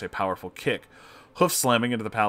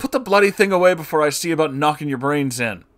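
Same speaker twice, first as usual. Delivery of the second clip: loud, furious barkeep voice, heavy Irish brogue; 7 semitones higher, 7 dB louder than usual. Narrating a tale, the barkeep yells at the golden man; thick irish accent. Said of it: "portray as having a thick Irish accent".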